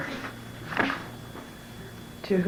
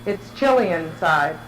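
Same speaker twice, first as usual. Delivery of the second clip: measured, evenly paced reading aloud; literary reading. Real, not acted. Writer reading their descriptive portrait to an audience, measured literary reading. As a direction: read it in deliberate phrases, pausing between images. Reads her written piece aloud.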